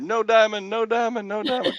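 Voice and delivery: high-pitched pleading yell, repeated like a chant; loud, high retold shout; yelling at screen. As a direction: re-enact yelling at a poker screen. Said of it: "I'm sitting there yelling at the screen".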